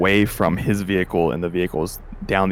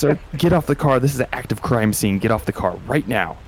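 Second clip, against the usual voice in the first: cop ordering; 4 semitones higher than usual. Acted. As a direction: command him off the car. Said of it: "he's like".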